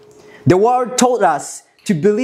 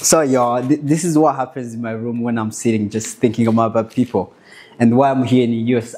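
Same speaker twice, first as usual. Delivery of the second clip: tearful; 6 semitones lower, faster than usual. Real, not acted. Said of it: "this is why I cry".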